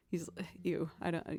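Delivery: whispered ew, grossed out; disgusted whisper. Real, not acted. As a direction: breathe it out in disgust. Grossed out by eyelash pulling.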